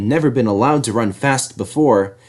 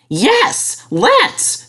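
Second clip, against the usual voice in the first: much higher, eager squeal; excited little engine. A narrator's reading. Percy agrees to race Harold, excited. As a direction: jump at the chance. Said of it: "said Percy excitedly".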